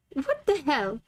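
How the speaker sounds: put-on baffled man in amateur British accent; terrible British accent. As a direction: puzzle it out in shaky put-on British English. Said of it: "this is my terrible British accent".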